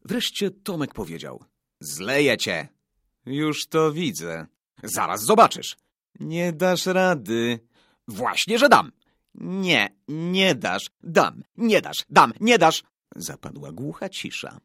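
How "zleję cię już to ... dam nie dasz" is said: raised, higher-pitched taunting back-and-forth; boys' squabble. A narrator's reading. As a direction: trade childish dares, building to louder retorts. Boys trading threats, acted dialogue. (chłopięca sprzeczka, zaczepnie)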